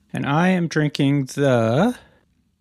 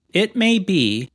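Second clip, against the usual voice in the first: "may" and "be" both leaned on, pitched up; deliberate higher emphasis on "may" and on "be"; stress on MAY and BE; 5 semitones higher, much slower than usual. Real, not acted. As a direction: weigh "may" and "be" equally. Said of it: "I stress the word may".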